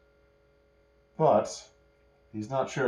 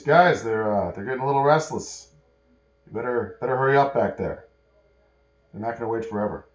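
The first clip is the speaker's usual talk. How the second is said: urgent call; 2 semitones higher, 6 dB louder than usual. Acted. Jack urges them to hurry.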